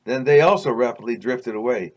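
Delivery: measured, deliberate read-aloud storytelling; story narration. A narrator's reading. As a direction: read it like a memoir chapter. Reads own story aloud.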